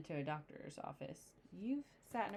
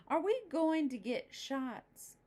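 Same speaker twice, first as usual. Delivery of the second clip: put-on worried boy; 9 semitones higher, 5 dB louder, slower than usual. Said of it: "he asked".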